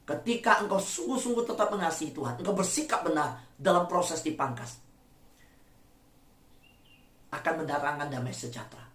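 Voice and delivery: low, hushed pastoral assurance. Acted. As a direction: bring it down to a gentle hush. Soft reflective preaching.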